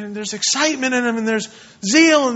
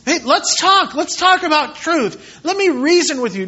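raised, friendly urging; eager invitation; 4 semitones higher than usual. Acted. Paul inviting people to talk about truth, eagerly persuasive. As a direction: invite them keenly, pitched up at the start.

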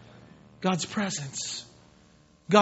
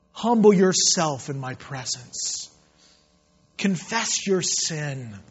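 measured, weighty pronouncement; solemn divine invitation. Acted. God inviting the seeker to come, solemn and measured. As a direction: speak each command deliberately, with pauses.

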